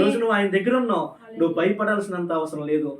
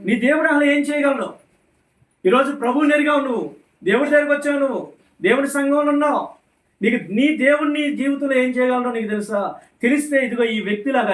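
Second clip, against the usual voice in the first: raised, forceful preacher's voice; fervent preaching; 4 semitones higher, 3 dB louder than usual. Real, not acted. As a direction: press the congregation with urgent questions. (ఉత్సాహభరిత ప్రసంగ స్వరం)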